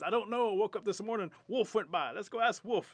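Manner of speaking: high, very loud squirrel reply; frantic squirrel. Acted. Squirrel answering while running, frantic shouting. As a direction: shout it all in a panic. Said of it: "Squirrel says".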